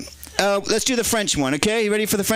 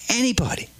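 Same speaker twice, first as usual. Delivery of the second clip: shocked whisper; 6 semitones higher than usual. Acted. Shocked question in a joke.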